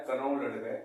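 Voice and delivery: कनौ लड़ गए, knowledge broken up into Hindi-sounding words; misreading of knowledge. Retold or imitated. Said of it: "लोगों को पढ़ते हुए देखा है".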